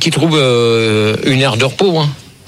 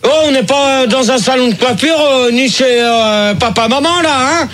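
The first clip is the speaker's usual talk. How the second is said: raised, higher-pitched telling-off; angry scolding; 5 semitones higher than usual. Real, not acted. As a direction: rebuke the chatterers to silence. Host scolds chattering studio guests.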